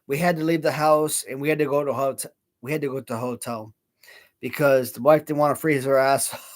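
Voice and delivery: slurring a little, tipsy; words loose from drinking. Real, not acted. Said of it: "Sorry, I'm so drunk right now".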